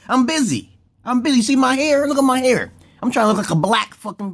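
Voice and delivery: high showy voice. Acted. Vlogger showing viewers his Viking hair, high preening voice. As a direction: pitch it way up and preen.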